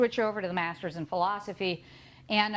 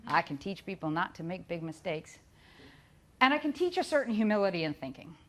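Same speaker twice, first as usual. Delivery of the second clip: put-on Texas accent; 3 semitones lower than usual. Imitating the good Doctor Kaiser in a Texas accent. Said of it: "You can hear that in the Texas accent".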